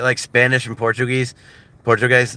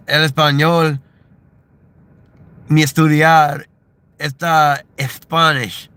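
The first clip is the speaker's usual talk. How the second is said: halting, raised-pitch beginner Spanish; slow learner's Spanish; 5 semitones higher, 4 dB louder than usual. Retold or imitated. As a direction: labor through it with long pauses. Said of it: "I have to speak it slowly".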